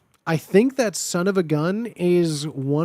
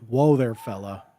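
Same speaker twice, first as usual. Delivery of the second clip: low mock cowboy; 7 semitones lower than usual. Trying a catchphrase, far voice.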